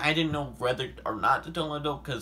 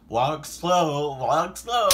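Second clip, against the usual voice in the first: higher, louder insistent urging; pleading with her to slow down; urgent friends' advice; 4 semitones higher, 6 dB louder, much slower than usual. Retold or imitated. Friends urging her to walk slowly. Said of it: "And they're like".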